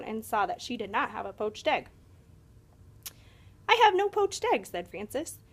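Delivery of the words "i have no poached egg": surprised dismay. A narrator's reading. Frances notices she has no egg.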